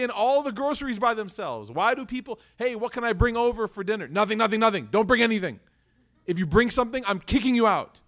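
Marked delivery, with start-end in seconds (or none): 2.6-4.1 higher, louder voice of an offering guest; acted chirpy dinner guest; eager guest. Acts guest offering to bring food. 4.1-8.0 loud, high mock-stern host; hammed-up protest; insistent refusal. Acts host insistently refusing offers.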